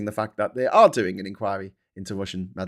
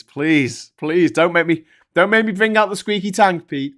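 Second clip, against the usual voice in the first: louder, higher begging building up; mock pleading; 6 semitones higher, 9 dB louder than usual. Jokingly begging Pete not to force the squeaky tank.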